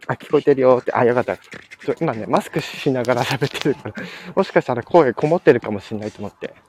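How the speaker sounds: muffled behind a mask; talking with a mask on; through a face mask. Real, not acted.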